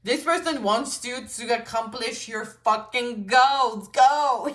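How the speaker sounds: slow, firm push ending in a loud GO; messenger pep talk. Acted. Messenger for the reading urging the viewer on, slow then loud. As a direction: deliver the message hard, then launch them. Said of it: "you can shout at me".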